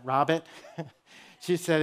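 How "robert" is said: imitated New England "Robert", r dropped before the t; New England accent. Injured mom answers her son in the ER, New England accent. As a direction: say the name with a non-rhotic New England accent. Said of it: "New England accent".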